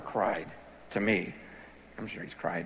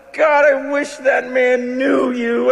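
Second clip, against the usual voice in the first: anguished cry; slower than usual. Retold or imitated. Mentor praying over pastors.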